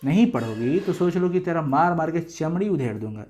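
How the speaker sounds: a hint of a coaxing father, half whispered at first; lightly voiced kind father handing over the book; gentle fatherly. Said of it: "ये इतने प्यार से नहीं बोलेंगे पिताजी".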